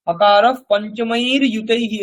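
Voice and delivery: slow chanted verse recitation; ধীরে শ্লোক পাঠ; Sanskrit recitation. Shown as a demonstration. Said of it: "এরকম বলে কারিকাটা শুরু হয়".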